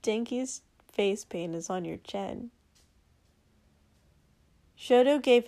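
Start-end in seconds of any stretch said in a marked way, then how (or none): 0.0-2.5 a soft, mild remark, softer; mildly. Acted. Izuku quietly teasing Shoto about face paint, mild. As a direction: gently point it out. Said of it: "Izuku said mildly".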